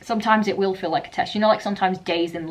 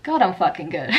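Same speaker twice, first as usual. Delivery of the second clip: ironic laughing. Retold or imitated. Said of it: "ironic, laughing kind of way".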